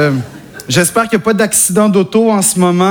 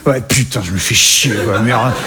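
low sulky Parisian accent; 11 semitones lower than usual. Shown as a demonstration. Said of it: "comme ça qu'il sonne le parisien".

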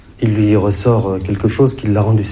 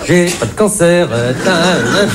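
slow, higher taunting sing-song; mock gloating; 6 semitones higher, slower than usual. Comedian crowing to the audience about his health, mock gloating. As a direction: tease like a child, drawing it out.

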